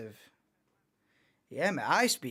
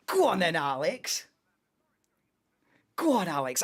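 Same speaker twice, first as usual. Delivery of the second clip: cheering on; 3 semitones higher, 4 dB louder than usual. Real, not acted. Urging driver on during race.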